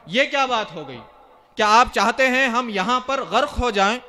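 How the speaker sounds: mildly indignant retold protest; understated angry questioning; indignant anger. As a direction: act out an affronted challenge, with restrained heat. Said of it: "بہت زیادہ جلال میں آ گئے".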